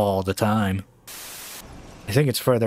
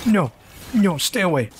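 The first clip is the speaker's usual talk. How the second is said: tag; 8 semitones higher than usual. Real, not acted. Monster attacking him in the game.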